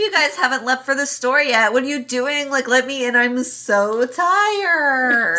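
hammed-up spoiled complaint, dragging tired; mock whiny villain. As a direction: moan about being tired like a brat.

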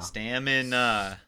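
slow, even robot voice. Shown as a demonstration. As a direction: say it like a robot, slowly. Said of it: "Stop saying it like a robot".

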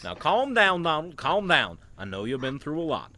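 Goofy voice. Acted. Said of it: "Goofy's with him too".

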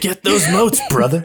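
loud drawling announcer with a high start; rambling folksy hobo. Retold or imitated. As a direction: play the Drifter calling over a loudspeaker. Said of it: "the Drifter's voice plays over the loudspeaker".

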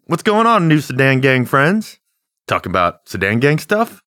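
high, friendly pal greeting; chummy buddy voice. Pretend. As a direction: lay on the fake friendliness. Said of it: "be like".

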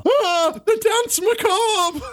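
high, drawn-out wailing cry; theatrical exclamation. Acted. Summoning of a skeleton from the floor, high theatrical cry. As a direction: announce it with hammed-up horror.

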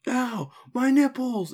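high, slow whiny moan; whiny complaint.

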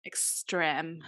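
breathy whispered word; whispered understatement. Real, not acted. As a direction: drop to a whisper for the punchline. Trailing off about fireworks.

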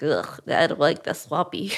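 grumpy little complaint; whiny plant voice. Pretend. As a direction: sulk like a fussy plant.

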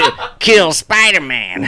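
slow laughing mock Green Goblin; badly faked Dafoe villain line; Willem Dafoe impression. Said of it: "Willem Dafoe impressions go to shit".

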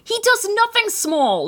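high, slow mock shout; mock yelling. Repeating the review, hammed-up slow yell. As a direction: bellow it like he never stops yelling. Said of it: "He's yelling through the entire movie".

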